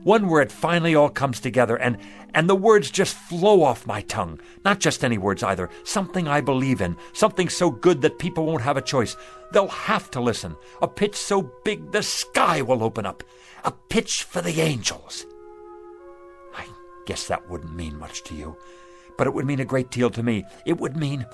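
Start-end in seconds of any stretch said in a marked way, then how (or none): 0.0-15.2 fervent, swelling salesman's vision, pitched up on key phrases; wistful fervor, lifted by belief; impassioned dreaming. Acted. Dreaming aloud of his big pitch. 16.6-18.6 low, soft, deflated admission; quietly embarrassed, much softer and lower; self-deprecating. Acted. Dream deflates, he turns self-deprecating.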